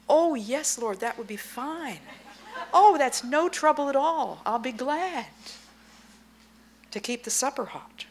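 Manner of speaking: high, laughing, gushing; overjoyed to keep supper hot; eager wife. Pretend. Wife happily agreeing to the Lord, high and laughing. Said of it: "wife eager to serve".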